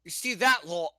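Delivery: muddled British, part Irish, part Brooklyn; badly faked British accent; mock British accent. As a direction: try British and land somewhere near Brooklyn. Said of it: "You sound like an old, like, Irish lady in Brooklyn".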